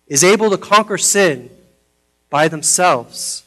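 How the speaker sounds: lightly voiced tender father; gentle reassurance. Father tells crying daughter nobody conquers sin alone, gently.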